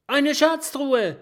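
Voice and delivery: high, loud, thrilled call of Schatztruhe; excited shout. A narrator's reading. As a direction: burst out with delight at the find. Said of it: "ruft das Stachelschwein begeistert".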